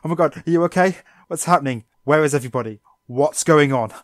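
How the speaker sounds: building angry Misty. Retold or imitated. Misty losing patience with Psyduck, escalating mock shout. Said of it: "gets angrier and angrier at Psyduck".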